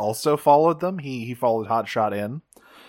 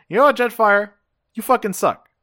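higher, indignant mock tirade; retold angry outburst; 6 semitones higher, faster than usual. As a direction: hurl the insult as an acted quote. Retold insult hurled at Jetfire.

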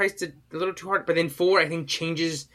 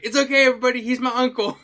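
imitating Judy calling out; 9 semitones higher, 5 dB louder, faster than usual. Acting out Judy reassuring a crowd.

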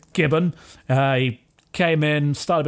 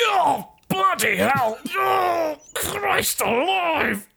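anguished cry; 12 semitones higher, much slower than usual. Real, not acted. Player reacts with dismay.

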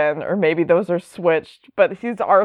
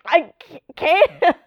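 high, pleading mock Batman voice; 11 semitones higher than usual. Batman explaining his code to Jason, high mock whine. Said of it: "And Batman's like".

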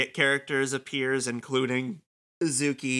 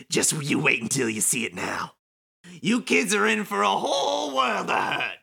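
villain monologue voice; 3 semitones higher than usual. Acted. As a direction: threaten like a hammy game villain. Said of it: "Kingdom Hearts level villain monologue in stupid voice".

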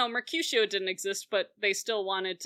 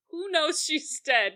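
mock-urgent, pitched-up question; 6 semitones higher than usual. Rosalind asks who knows, urgent. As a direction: retell it higher, with light urgency.

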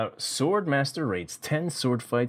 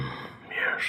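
mock sinister; 9 semitones lower, 4 dB quieter than usual. Co-host answering the whisper.

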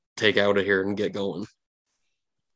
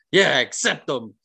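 eager sidekick voice; 4 semitones higher than usual. Acted. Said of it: "the lucky dog's like".

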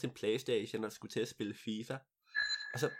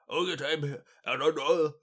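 pompous king; 3 semitones higher, 7 dB louder than usual. Acted. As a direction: boom like a huge self-important king. King speaks again.

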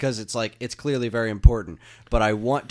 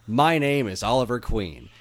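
imitating Arrow intro. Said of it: "spot on on their intonation".

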